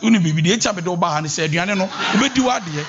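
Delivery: fast nagging accusing tone; mock complaining wife, fast; bad tone. Shown as a demonstration. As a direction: rush in with blame. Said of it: "Don't go like".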